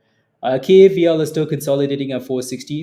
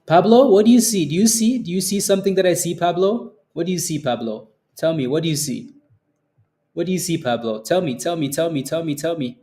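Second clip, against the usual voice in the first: teasing singsong; 3 semitones higher than usual. Acted. Teasing Pablo about the chart.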